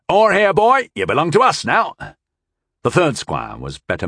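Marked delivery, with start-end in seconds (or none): 0.1-1.9 high, loud, gleeful call; cheerful calling. A narrator's reading. Victor's side summoning the beaten squire, cheerful call. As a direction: crow it out cheerfully. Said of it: "Vren called cheerfully".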